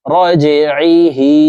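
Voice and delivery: slow recitation, bouncing jim in "রজে"; qalqalah bounce. Shown as a demonstration. Teacher demonstrates the rule for jim, bouncing release in "রজে". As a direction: push the jim of "রজে" downward with an echoing release. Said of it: "ধাক্কা দিয়ে উচ্চারণ করব".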